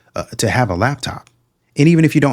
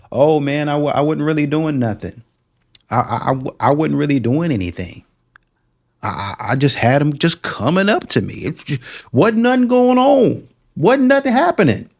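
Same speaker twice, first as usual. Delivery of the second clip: mock innocent woman; 5 semitones higher than usual. Mocking woman's innocent excuse.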